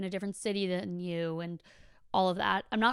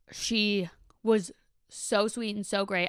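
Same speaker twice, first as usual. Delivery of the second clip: whisper; slower than usual. Real, not acted. Fond aside about new friend.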